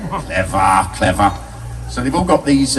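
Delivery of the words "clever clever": sarcastic clever. Acted. Mocking the filmmakers' pun.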